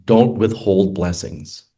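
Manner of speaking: slow, measured divine pronouncement; unhurried voice of God, lightly voiced. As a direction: deliver it slowly, like a solemn command. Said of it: "I heard a voice go".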